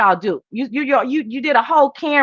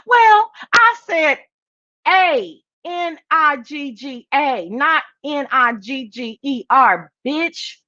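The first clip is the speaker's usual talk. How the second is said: imitating Misty; 5 semitones higher, slower than usual. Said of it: "Misty, goes".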